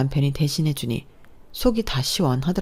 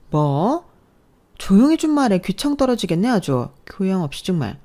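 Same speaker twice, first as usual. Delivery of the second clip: much higher, louder annoyed snap; irritated snap; 4 semitones higher, 3 dB louder than usual. Acted. Sister-in-law at the spa snapping at the caller, irritated. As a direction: bite her head off.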